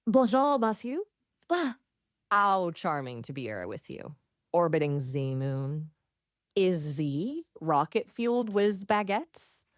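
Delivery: exaggerated French accent; theatrical French-accented charm. Shown as a demonstration. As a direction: put on a hammy French accent. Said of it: "can you do a French accent?".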